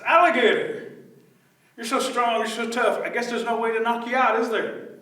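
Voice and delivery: high, wheedling put-on voice; butter up the gator innocently; flattering disguised rabbit.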